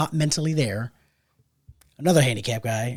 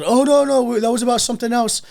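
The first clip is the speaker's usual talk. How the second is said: put-on high frat boy; 8 semitones higher, 5 dB louder than usual. Frat boys voiced defensively.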